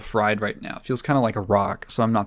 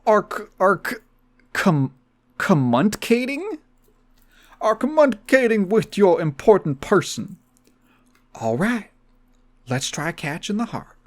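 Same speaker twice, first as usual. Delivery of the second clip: Steve Harvey voice; 8 semitones higher than usual. Acted. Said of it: "I'll do Steve Harvey".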